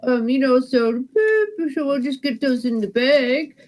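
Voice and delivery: lightly voiced Wisconsin cashier accent; a folksy Wisconsin checkout clerk, gently. Cashier chatting to a shopper in a light Wisconsin accent. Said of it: "that little accent ... Wisconsin".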